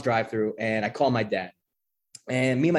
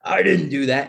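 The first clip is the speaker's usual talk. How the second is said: mild mock scream, louder; half-raised yell of denial; retold drunken scream; 2 semitones higher, 5 dB louder than usual. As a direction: imitate yelling it on the phone.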